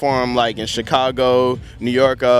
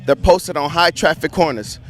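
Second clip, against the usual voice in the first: rhythmic slam poetry recital, pitch often raised; spoken word; 2 semitones higher than usual. Shown as a demonstration. Young poet performing environmental slam poetry for an interviewer, spoken word. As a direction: perform it as slam poetry, driving through the lines. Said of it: "Spoken word".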